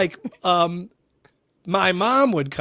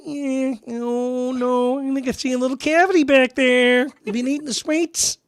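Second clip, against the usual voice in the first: imitated dentist; 9 semitones higher than usual. Dentist quizzing a child about sweets, high mock-cutesy voice. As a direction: coo over a child's teeth, mockingly high. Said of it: "he would always be like".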